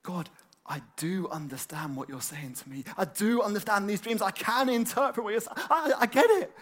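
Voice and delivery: building from plain to high, loud elation; growing joy. Retold or imitated. Joseph telling God he understands, building to loud joy. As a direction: let the joy swell to a shout. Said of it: "he's like".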